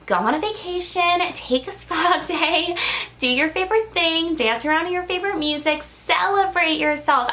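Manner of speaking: cheerleading guides, upbeat and lifted; spirit guides urging. Retold or imitated. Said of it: "Your guides are like".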